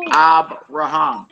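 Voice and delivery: "Abraham" slowly, syllable by syllable, weight on "ham"; stress on last syllable. Shown as a demonstration. Teacher repeating the word for class, stress on last syllable. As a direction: draw out "Abraham" and lean on its final syllable. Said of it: "accent on the last syllable".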